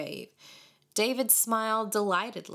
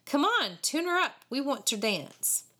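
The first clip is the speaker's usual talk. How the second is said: high, pushy taunt; jeering; 7 semitones higher than usual. A narrator's reading. Boys demanding music from David, jeering. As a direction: goad him with a mild jeer. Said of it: "they jeered into his face again".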